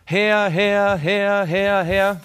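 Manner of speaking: loud, high repeated cry; frenzied crying out. Retold or imitated. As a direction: call out like people dancing and screaming. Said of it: "die umhertanzen und schreien".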